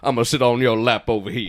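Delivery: mock drawling rock-and-roll star; hammed-up singer voice; a famous rock-and-roll singer. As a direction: tease the other player's drifting impression. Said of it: "you ended up at a famous singer".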